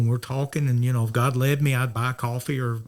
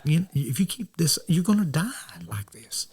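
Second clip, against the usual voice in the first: blunt warning; 5 semitones higher than usual. Retold or imitated. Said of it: "I'm just blunt with him".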